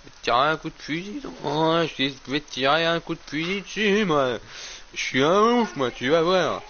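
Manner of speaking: high, loud hammed-up threats at the crowing rooster; play-yell at the game's rooster like a madman; mock threat to rooster. Yelling threats at game rooster. (menaces crâneuses criées au coq, aiguës et fortes)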